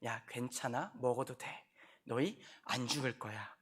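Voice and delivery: quiet sly devil; devil coaxing. Acted. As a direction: soothe them into disobeying. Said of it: "이 설교 본문과 같이 얘기를 하면".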